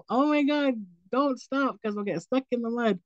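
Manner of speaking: retold alarm. Passenger to sister driving into the ditch, retold mild alarm. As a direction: re-enact a touch of alarm, pitch jumping up.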